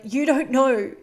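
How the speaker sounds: frustrated quote. Retold or imitated. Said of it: "frustrated and resentful".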